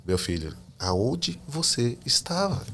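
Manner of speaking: slow, soft and tender; gentle voice of God. Retold or imitated. God tenderly asks his lost son where he was, slow and soft. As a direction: speak it slowly and softly, like a loving father. God speaks to him in church.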